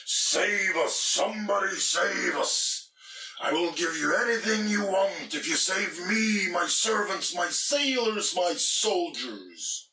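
high, loud desperate screaming plea; screaming king. Acted. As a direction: scream for rescue at the storm. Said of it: "The king screamed at the storm".

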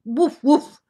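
loud double woof; dog barks. Acted. Grandmother reading Biscuit book to children, loud barks. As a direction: bark it out twice.

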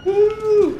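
high joyful whoop; excited whoop. Real, not acted. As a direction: cheer out loud, delighted. Cheering at the game.

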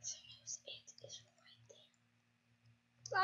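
slow hushed whisper. Real, not acted. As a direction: whisper so the bear won't hear. Hiding from the bear.

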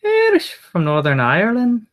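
high-pitched, badly faked Irish accent; hammed-up bad Irish accent; horrible Irish accent. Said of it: "That was a horrible accent".

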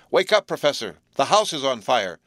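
loud shout to wake a sleeper. A narrator's reading. Frank shouts into the drugged professor's ear, loud. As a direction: yell it right into his ear. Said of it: "shouted Frank in the ear".

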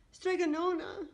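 high, loud tearful call; weeping wail. A narrator's reading. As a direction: wail the name in grief. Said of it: "wept Antonia".

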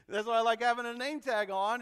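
amused repeat of own joke; laughing. Real, not acted. Preacher laughs at his own name-tag line to the congregation, laughing.

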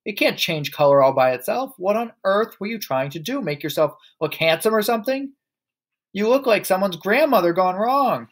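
high, scolding exclamations; crying out. A narrator's reading. Mother ridiculing her husband's new colour, crying out. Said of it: "the mother cried".

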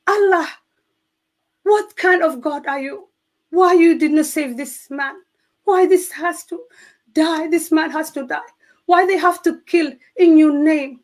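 high, raw retold questioning of God; tearful angry plea to God. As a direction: demand answers from God through tears. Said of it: "crying and questioning and be angry to God".

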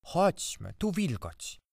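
high, kindly aunt voice. A narrator's reading. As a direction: coax gently in a high voice. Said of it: "odezwała się ciocia z dobrocią".

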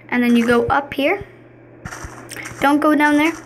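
gum in mouth while talking; chewing gum. Real, not acted. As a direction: keep chewing through the words. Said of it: "Sorry, I'm chewing gum".

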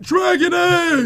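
high, loud, drawn-out cheer; excited shout. Real, not acted. Player winning a dragon egg, excited shout. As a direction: crow loudly over a great find. Lucky find in the game.

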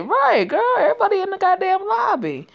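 loud, high-pitched exasperated outburst; exasperated rant. Real, not acted. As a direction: rant it out, worked up and indignant. Ranting about missing the booking.

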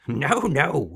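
high, loud amused noes; chuckled refusal. A narrator's reading. Little man amused by a wrong guess, chuckling. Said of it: "he chuckled".

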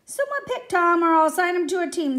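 snapped order. A narrator's reading. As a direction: snap it at the class with mild impatience. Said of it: "the teacher snapped".

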